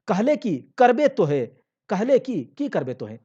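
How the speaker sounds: loud, high defiant taunt; wife defying husband in a loud high voice; defiant challenge. Acted. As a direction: dare him to do it, loud.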